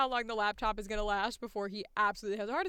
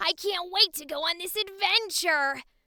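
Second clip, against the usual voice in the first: loud, high-pitched, gritty cartoon hero voice; 6 semitones higher, 6 dB louder than usual. The speaker demonstrates one of their favorite character voices: Ash Ketchum voice. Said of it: "I love doing Ash Ketchum".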